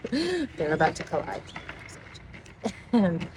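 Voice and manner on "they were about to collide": "They were about to collide" said again through laughter; laughing repeat. Shown as a demonstration. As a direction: laugh it out the second time.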